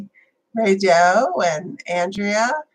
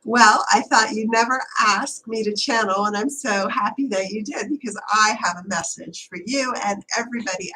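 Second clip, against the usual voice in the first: channeled cat, only slightly off the usual voice; lightly voiced Chloe Ann. Cat Chloe addressing Mom and the audience, lightly voiced. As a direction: speak as a pet cat with a message. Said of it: "I want her to speak through me".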